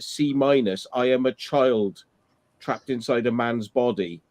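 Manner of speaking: slow sneering mimic. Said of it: "mocking the man's excuse".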